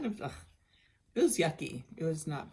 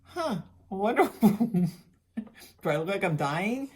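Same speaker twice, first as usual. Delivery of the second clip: high, loud, laughing slow self-mockery; slowed, laughing mock daze; dazed musing; 5 semitones higher, 8 dB louder, slower than usual. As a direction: drawl it out like a dazed, half-laughing wonder. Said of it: "I'm just sitting there going".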